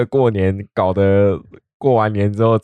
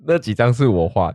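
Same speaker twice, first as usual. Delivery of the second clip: laughing; 2 semitones higher than usual. Real, not acted. Jokes about own drawings.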